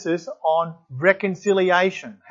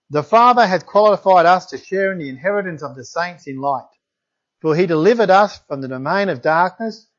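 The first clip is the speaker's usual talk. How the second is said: scripture reading. Acted. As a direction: read it out like holy words to the congregation. Reads Colossians passage aloud.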